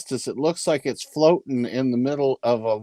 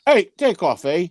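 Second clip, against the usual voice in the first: a hammed-up Canadian "Hey, take off, eh?" pitched up; Canadian accent; 5 semitones higher, 3 dB louder than usual. Answers the dodgy Canadian accent jibe with a hammed-up Canadian accent. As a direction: bark it out like a mock Canadian hoser. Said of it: "that dodgy Canadian accent".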